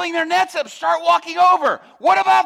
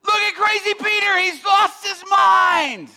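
jeering; 6 semitones higher, slower than usual. Retold or imitated. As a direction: taunt him. Crews heckling.

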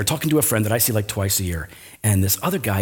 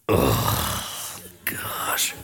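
low, breathed-out groan into a whisper; hushed, guilty exasperation; dismayed groan; 13 semitones lower, 7 dB quieter than usual. Retold or imitated. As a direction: sigh it out in dismay. Dismayed reaction to being rebuked.

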